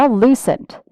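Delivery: normal talking voice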